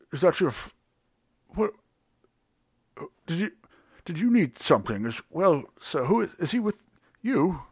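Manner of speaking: nervous stammering barman; flustered barkeep. Acted. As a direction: stumble over every word, flustered.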